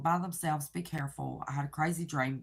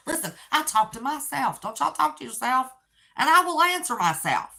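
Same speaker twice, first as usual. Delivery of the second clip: higher and louder, still laughing; laughing confession; 9 semitones higher, 6 dB louder than usual. Real, not acted. Tickled, telling viewers she answers herself. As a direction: confess it through giggles. Amused confession of self-talk.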